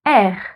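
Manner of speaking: "R" named as French "erre"; French letter R. Shown as a demonstration. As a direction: say "R" as "air" with a throat r. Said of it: "The letter is".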